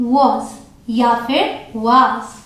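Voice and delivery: was said once with a quick short vowel, then with a long vowel; two was pronunciations. Shown as a demonstration. Teacher showing students the two ways to say was. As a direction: contrast a quick was and a drawn-out was. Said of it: "एक को हल्का सा अ करके जल्दी से बोलेंगे was".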